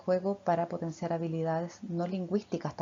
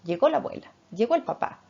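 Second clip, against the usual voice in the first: put-on bright, higher, louder baby talk; 4 semitones higher, 4 dB louder than usual. Shown as a demonstration. Mother dresses her baby and announces grandma's arrival, lifted baby talk. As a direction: narrate the moment to the baby, lifted and cheerful. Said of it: "Yo voy hablando de lo que está pasando ahora".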